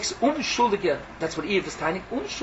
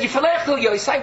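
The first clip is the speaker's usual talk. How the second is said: quoting Iyov; 5 semitones higher, 4 dB louder than usual. Retold or imitated. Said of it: "But he said".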